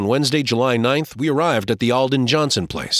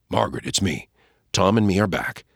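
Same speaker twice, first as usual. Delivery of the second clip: tender; 3 semitones lower than usual. Acted. Pa softly to sick wife.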